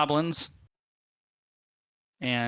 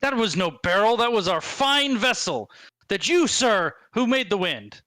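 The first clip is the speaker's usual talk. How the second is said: indignant goblin; 4 semitones higher than usual. Acted.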